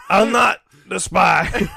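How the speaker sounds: slow put-on Texas drawl; hammed-up Texan denial; mock Texas accent. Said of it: "I'm from Texas".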